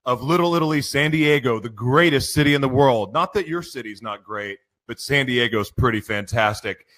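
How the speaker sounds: big, bright announcer intro; hyped morning show announcer; radio show opener. Acted. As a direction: open the broadcast like a radio host.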